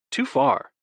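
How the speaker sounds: high mock howl of protest; theatrical brotherly howl. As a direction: yelp it out dramatically. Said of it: "Oliver howls".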